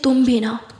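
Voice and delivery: loud, exasperated scolding. Acted. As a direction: tell her off, loudly and fed up. Siya scolds her friend. (डाँटते हुए ज़ोर से)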